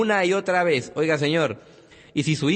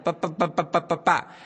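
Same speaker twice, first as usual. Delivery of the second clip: put-on baby echo. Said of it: "y él hacía".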